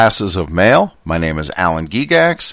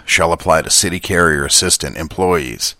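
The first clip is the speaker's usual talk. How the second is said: lightly gruff, slightly lower quoting voice; Dan Carlin gruff voice; 4 semitones lower than usual. Acted. Reading contract text aloud, a mild gruff quote voice. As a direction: read the contract like a gravel-voiced history narrator. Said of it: "use his gruff voice that he uses for his quotes".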